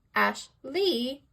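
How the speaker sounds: "Ashley" with ASH stressed and LEE light; stress on first syllable. Shown as a demonstration. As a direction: punch the first syllable of "Ashley", ease off the second. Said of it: "Ash is stressed and Lee is unstressed".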